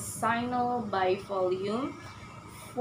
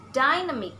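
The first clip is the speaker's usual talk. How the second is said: DY high in "Dynamic", then falling; stress on first syllable; 4 semitones higher, 3 dB louder, faster than usual. Shown as a demonstration. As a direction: lean on the DY of "Dynamic". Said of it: "stress in first syllable".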